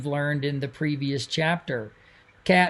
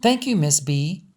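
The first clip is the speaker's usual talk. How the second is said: steady storyteller reading a novel aloud; story narration. A narrator's reading. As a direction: tell it evenly, like reading a chapter to listeners.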